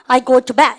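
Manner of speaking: loud, clear model. Shown as a demonstration. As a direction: read it out for the class. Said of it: "그 다음에 보세요". (크게 읽어 주기)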